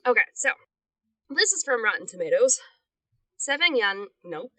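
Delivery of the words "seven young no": laughing. Real, not acted.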